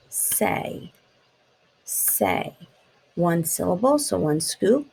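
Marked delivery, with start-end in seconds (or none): 0.1-0.9 whispered word. Shown as a demonstration. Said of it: "how many syllables is it". 1.8-2.6 whispered word. Shown as a demonstration. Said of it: "how many syllables is it".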